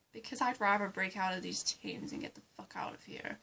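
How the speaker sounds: hushed, altered conspiratorial whisper; breathy scheming hush in the cell; prison whisper. Acted. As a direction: whisper the escape plan.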